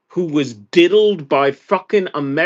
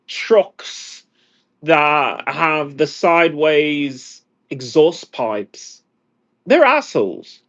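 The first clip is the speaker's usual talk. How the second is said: heated rant; 4 semitones higher than usual. Real, not acted. Ranting about truck owners.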